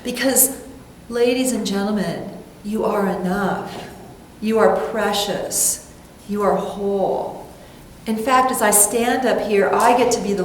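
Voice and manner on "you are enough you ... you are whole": tender affirmation. Acted. Slow affirmations to congregation.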